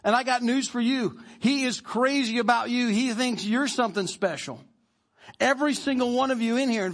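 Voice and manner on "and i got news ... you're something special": fired-up Paul. Retold or imitated. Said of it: "he's getting fired up about it".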